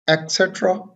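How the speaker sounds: et cetera as "ek-SET-ra"; a K sound at the start of et cetera; wrong pronunciation. Shown as a demonstration. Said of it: "this is not et cetera". (et cetera का ग़लत उच्चारण, "एक्सेट्रा")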